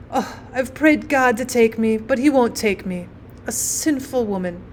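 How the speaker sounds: lightly acted maternal lament; despairing mother.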